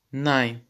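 nine said NEE-neh; German pronunciation. Shown as a demonstration. Teacher modelling German words for students, clearly. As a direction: say nine with a long ee. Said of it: "ay, ay şeklinde okunmaktadır".

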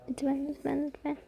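quiet pleading. Real, not acted. Begging the edit to work.

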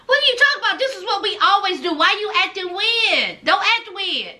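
put-on puzzled and annoyed girlfriend; Lindsay confused. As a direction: girlfriend scolding her man for acting weird. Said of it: "She was like".

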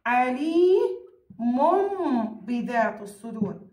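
عليم بذات الصدور slowly, with a held m before the ب; measured recitation of عليم بذات الصدور, lingering on the m; iqlab pronunciation. Shown as a demonstration. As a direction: stretch the tanween of عليم into a hummed m. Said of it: "كيف ألفظها؟".

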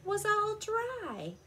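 animated picture-book narration; story reading. A narrator's reading. Telling children of the determined rocks, lively storytelling. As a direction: read it out clearly to young children.

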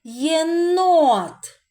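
teacher showing the word stress; stress on НОТ. Shown as a demonstration. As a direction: hit the second syllable of Єнот. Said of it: "на який склад падає наголос".

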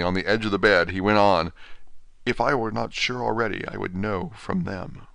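lightly voiced feeble patient, dazed; a hint of a broken man just waking from a dream; faint, bewildered invalid, lightly voiced; weak dying Renfield. Renfield realises the truth.

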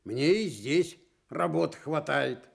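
cross. Acted. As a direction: snap back at the fox, gruff and annoyed. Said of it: "сердито сказал он".

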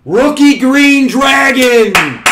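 high, loud and slow thrilled cry; excited. Real, not acted. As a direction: draw out the reveal in delight. Excited reveal of card.

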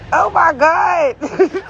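slow, drawn-out tearful shout; overwhelmed cry. Real, not acted. Seeing her new house, a tearful overjoyed cry. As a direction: let it burst out half sobbing.

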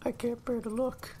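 high, loud, outraged yell; outraged shouting. Real, not acted. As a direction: shout in real shock. Reacting to guard beating prisoner.

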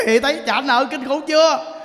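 laughing high. Real, not acted. Monk laughing at the grandmother's story. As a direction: laugh through the words.

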